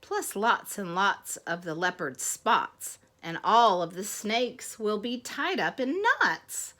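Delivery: lilting rhymed storybook reading; story read to children. Acted. Bees complain of the last sneeze, storybook reading. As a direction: read the rhyme aloud with playful weight on each beat.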